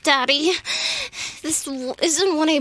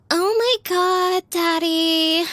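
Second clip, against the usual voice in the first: higher, breathy-free airhead bimbo gush; 5 semitones higher, slower than usual. Acted. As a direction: play the ditzy bimbo, pitched up. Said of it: "you want me to do a stupid bimbo voice".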